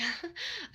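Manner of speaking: small, high, soft awkward laugh. Retold or imitated. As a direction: give a little uneasy laugh. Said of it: "I do, like, a little awkward laugh".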